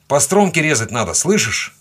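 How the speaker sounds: high, loud, urgent instruction; shouting in his ear. A narrator's reading. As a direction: shout to be sure he hears. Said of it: "крикнул я ему прямо в ухо". (крик прямо в ухо)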